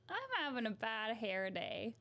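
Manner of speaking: badly faked Brooklyn accent; Harley Quinn. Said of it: "You try to do Harley Quinn".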